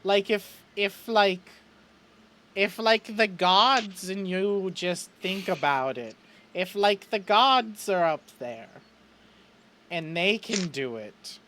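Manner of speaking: high, slow, halting character voice; tentative hope. Acted. Chet wonders if Graham watches from above, haltingly. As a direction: ask haltingly, feeling your way toward comfort.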